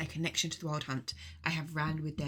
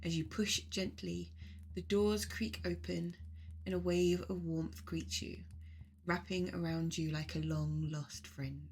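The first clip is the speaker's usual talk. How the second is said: guided meditation. Acted. Leading listeners on a journey to the mead hall, guided meditation. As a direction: guide listeners unhurriedly, phrase by phrase.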